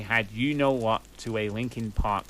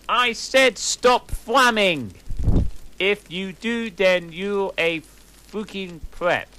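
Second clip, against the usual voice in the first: indignant rant; 8 semitones higher, 5 dB louder than usual. Acted. Author's note scolding flamers.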